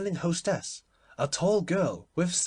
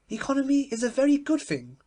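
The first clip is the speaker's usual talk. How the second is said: complacent; 13 semitones higher, 6 dB louder than usual. A narrator's reading. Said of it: "remarked the Duchess complacently".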